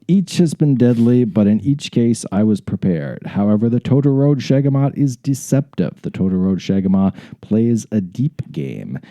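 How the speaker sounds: measured, deliberate read-aloud; dramatic story narration. Acted. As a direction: narrate it like a grand adventurer's memoir. Resumes reading story.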